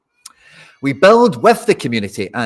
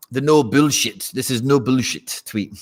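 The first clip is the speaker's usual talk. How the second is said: slow, put-on Polish accent; a light Polish accent; mock Polish accent. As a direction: read it like a Polish CEO, slowly. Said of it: "I did his accent like he's Polish or something".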